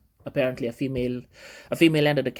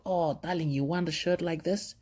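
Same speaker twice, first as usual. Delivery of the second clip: put-on softer, lifted voice to a little child; mildly doting, gently offering; fond dad; 6 dB quieter than usual. Dad fondly answers young daughter.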